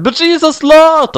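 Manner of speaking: high, slow, loud-edged wail; gasped and cried. A narrator's reading. Heroine protests about Rose to Doctor Who, high wail. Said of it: "I gasped and cried and said".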